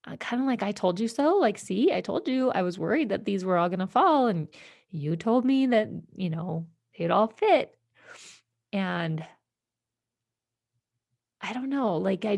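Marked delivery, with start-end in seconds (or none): 0.6-7.8 indignant told-you-so. Retold or imitated.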